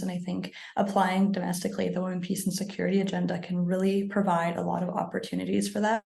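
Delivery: hoarse, fading voice; losing voice. Real, not acted. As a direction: speak with a tired, hoarse voice. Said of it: "I'm also losing my voice today".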